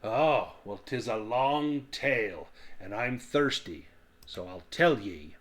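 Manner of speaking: lightly voiced chummy dwarf; genial dwarf. Dwarf agreeing to tell the tale, lightly voiced and chummy. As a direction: settle in to spin a yarn.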